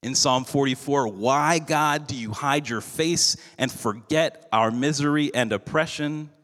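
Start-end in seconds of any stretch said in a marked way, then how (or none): 1.1-6.3 a touch of anguish, higher; mild pleading lament; crying out. Retold or imitated. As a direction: lament it up toward heaven. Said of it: "David cries out".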